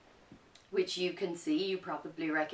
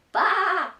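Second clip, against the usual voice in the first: high, loud baa; sheep bleat; 13 semitones higher, 12 dB louder than usual. Acted. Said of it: "said the sheep".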